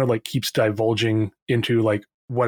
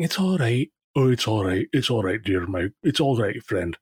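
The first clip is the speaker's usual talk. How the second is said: soothing. Acted. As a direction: comfort a distressed patient, voice sinking. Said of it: "the two nurses start soothing him".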